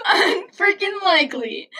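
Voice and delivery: high, slow mock quote; hammed-up catchphrase. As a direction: draw out the punchline high.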